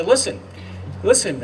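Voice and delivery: eager urging. Retold or imitated. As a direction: mimic the governor urging him to hear him out. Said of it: "as you hear his excitability".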